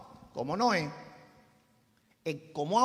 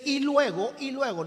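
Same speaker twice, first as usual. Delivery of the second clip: "Y luego" pushed high and loud, then repeated; emphatic repetition; 4 semitones higher, 5 dB louder than usual. Real, not acted. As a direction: hit "Y luego" hard to stress the sequence. Stressing scripture's order of events.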